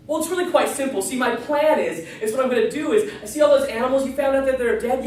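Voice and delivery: a hint of a gleeful villain; lightly voiced scheming dog. Evil dog explains plan.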